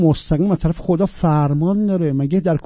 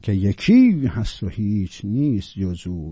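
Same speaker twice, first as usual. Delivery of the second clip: usual speaking voice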